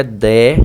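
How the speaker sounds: DECRESCENTE broken up as "de... cres... cente" with long pauses; halting chunk-by-chunk decrescente; syllable-by-syllable. Shown as a demonstration. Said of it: "aqui é crescente".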